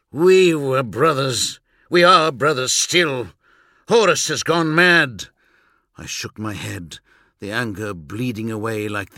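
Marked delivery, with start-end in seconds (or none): 0.1-5.3 higher, louder pleading cry; anguished shout. A narrator's reading. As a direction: plead with all your force. Vulcan pleads with brother.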